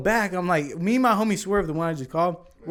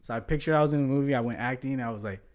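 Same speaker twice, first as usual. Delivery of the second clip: acting calm; 3 semitones lower, 4 dB quieter than usual. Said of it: "So I had to get in character".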